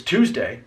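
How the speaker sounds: "Tuesday" as TOOZ-day; standard pronunciation. Shown as a demonstration. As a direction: clear T at the start of "Tuesday". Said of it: "in my mind, I knew it was".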